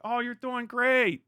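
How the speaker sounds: high, slow, coddling mock praise; patronizing praise. Big sibling humouring the UK, patronizing. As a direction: humour them like a little kid.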